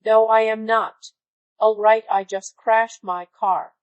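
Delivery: loud, indignant snap down the line; angry caller. Retold or imitated. Crashed driver yelling at the museum receptionist, loud and furious. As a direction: bark it like an irate driver.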